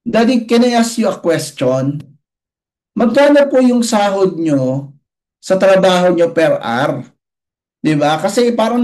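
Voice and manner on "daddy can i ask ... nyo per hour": put-on child's voice. Child asks about pay.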